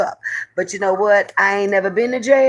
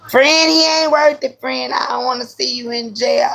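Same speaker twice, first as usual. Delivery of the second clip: higher urgent friend voice; friend pleading; 6 semitones higher than usual. Retold or imitated. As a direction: beg her not to go.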